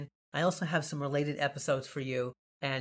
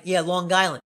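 put-on Long Island accent; 2 semitones higher, 6 dB louder than usual. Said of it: "they'll be like".

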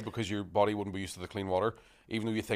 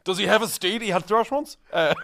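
higher, louder, through laughter; laughing; 10 semitones higher, 7 dB louder than usual. Real, not acted. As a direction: ask it while cracking up. Laughing medieval role-play.

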